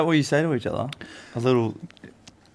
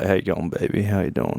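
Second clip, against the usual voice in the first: slightly lowered flirting voice; put-on deeper voice; 3 semitones lower, 3 dB quieter than usual. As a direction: drop it a little, like a nervous guy on a date. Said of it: "make his voice a bit deeper".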